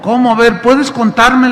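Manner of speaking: high, loud surprised questioning; a startled, loud "¿cómo?". Retold or imitated. Surprised pastor asks woman.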